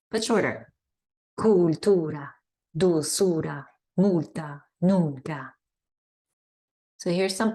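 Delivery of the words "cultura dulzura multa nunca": short pure u in each word; Spanish u words. Shown as a demonstration. Teacher modelling u words for students. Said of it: "the U is like u".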